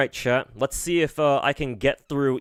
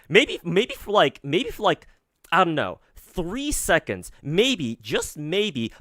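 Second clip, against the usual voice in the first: high, teasing 'maybe' pleading; sugary sarcastic hedging; mock suggestion; 6 semitones higher, slower than usual. Real, not acted.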